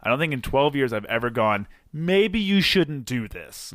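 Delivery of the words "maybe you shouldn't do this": mock worried passenger. Imagined remark to wife.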